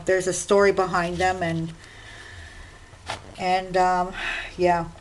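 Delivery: normal talking voice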